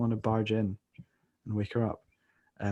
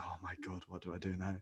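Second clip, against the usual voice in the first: despairing mutter; 4 semitones lower, 16 dB quieter than usual. Retold or imitated. Retelling his own panic.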